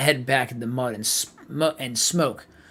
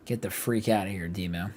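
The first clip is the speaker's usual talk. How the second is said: much softer, lower, muttered inward; a quiet thought, lower and softer; inner thought; 7 semitones lower, 8 dB quieter than usual. Acted. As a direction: think it to herself, hushed. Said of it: "she thought".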